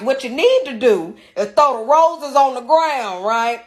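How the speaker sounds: a hint of a bossy mother laying down the plan; mama giving advice. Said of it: "My mama like".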